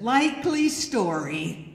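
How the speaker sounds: drawn-out, disbelieving wife's line; sceptical retort. Retold or imitated. Wife answers the husband's excuse about not hearing cries, sceptical.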